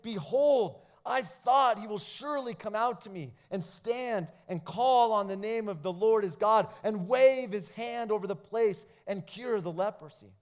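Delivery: mild indignant reading. Acted. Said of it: "But Naaman was furious".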